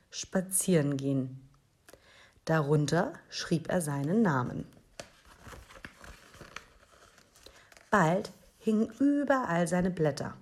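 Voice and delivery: put-on animated reading to children; story narration. A narrator's reading. Host reads a dinosaur book to first graders, story narration. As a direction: read it out with lively emphasis and dramatic pauses.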